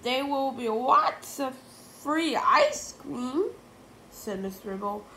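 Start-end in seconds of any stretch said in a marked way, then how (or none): 0.0-3.5 teacher voice. A narrator's reading.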